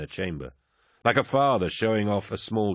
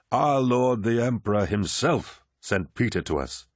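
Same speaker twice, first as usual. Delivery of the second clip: commanding warrior lord; 3 semitones higher than usual. Acted. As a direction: speak like a genial, mighty lord. Narrator voices Horus.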